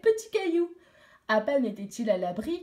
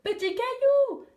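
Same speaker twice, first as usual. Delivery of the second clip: second call, even higher, louder and slow; 13 semitones higher, 5 dB louder than usual. Acted. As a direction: call his name again with more force. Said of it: "cria-t-elle".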